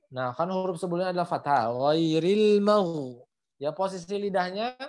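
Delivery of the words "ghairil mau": Ghairil mau drawn out, heavy gh; ghain tebal. Shown as a demonstration. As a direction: raise the back of the tongue for Ghairil mau. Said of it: "dia jadi tebal gitu". (Ghairil mau pelan dengan gh tebal)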